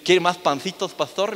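put-on light joking Castilian accent to the pastor; teasing Castilian accent. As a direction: tease him by copying his Castilian accent. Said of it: "haciéndole broma de su acento".

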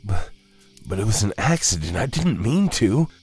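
timid, rushed protest rising high; high, anxious excuse. A narrator's reading. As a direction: plead nervously, stumbling at the start. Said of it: "Jonah said timidly".

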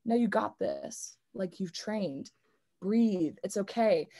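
soft, quiet reassurance to yourself; soothing inner voice; calm self-talk. Retold or imitated. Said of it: "I'm like".

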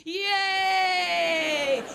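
put-on high, gleeful kid at dinnertime; overjoyed child announcing good news; childlike enthusiasm. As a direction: build to a long, loud cheer. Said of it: "go-to word for enthusiasm".

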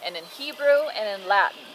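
put-on measured, clear read-aloud to a child; storybook narration with firmly projected key words; Bible story narration. A narrator's reading.

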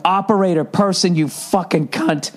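half-strength exasperated yell. Retold or imitated. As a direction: retell a yelled demand, slowing into the curse. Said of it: "I just started yelling".

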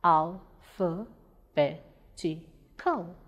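"Alphabetical" very slowly in five separate syllables. Shown as a demonstration. Teacher breaking "Alphabetical" into syllables, slow and separated. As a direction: break "Alphabetical" apart with a pause after each syllable. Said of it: "Now let's break alphabetical into syllables".

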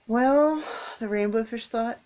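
gentle storybook narration; reading to children. A narrator's reading. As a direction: read it like a picture book for kids. Reading picture book to children.

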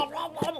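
little squeaky animal laugh; squirrel squeak. Pretend. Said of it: "What kind of squirrel sound is that?".

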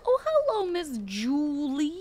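high, sing-song hello to a victim; mock sweet greeting. Killer sweetly greets a fleeing survivor, sing-song.

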